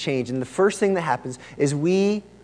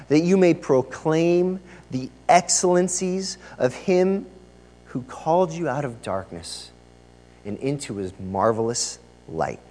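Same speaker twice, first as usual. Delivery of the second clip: scripture reading. Acted. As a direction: let the verse settle down, phrase by phrase. Continues reading verse nine.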